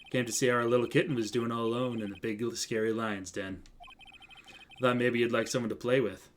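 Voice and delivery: lightly voiced suave mentor. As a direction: lightly play an amused older colleague. Voices Diego in visual novel.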